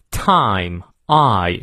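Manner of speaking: TIME with the long I glide fully sounded; full diphthong. Shown as a demonstration. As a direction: draw out the "I" in Time completely. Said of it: "双元音一定要念到位".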